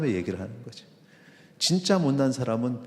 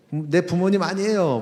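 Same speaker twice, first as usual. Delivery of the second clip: loud, high retold yell at a parent; angry child shout; 7 semitones higher, 6 dB louder than usual. Child shouting at the parent that they are not their parent, loud yell. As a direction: throw it back at the parent, shouting. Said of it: "뭐 이러고".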